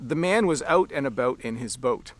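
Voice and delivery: "out", "about" and "boat" with Canadian O sounds. Shown as a demonstration. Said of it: "hear how the O sound sounds".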